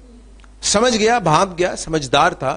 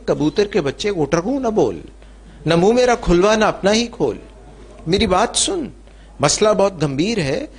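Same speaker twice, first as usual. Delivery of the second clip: mouse snaps at pigeon, pitched up; a raised, urgent little scold; higher mock scolding; 5 semitones higher than usual. Mouse warning the pigeon, raised urgent voice.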